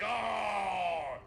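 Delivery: long, high "oh"; mock dismay. Imagining who made it into heaven, mock dismay. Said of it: "I'm not gonna be like".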